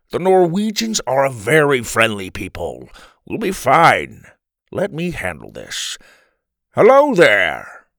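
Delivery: confident grandpa, building to a loud hail; lightly voiced grandpa.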